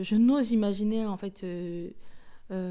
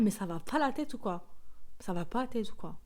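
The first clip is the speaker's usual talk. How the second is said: Marseille accent. Real, not acted. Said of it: "Mon côté marseillais ressort".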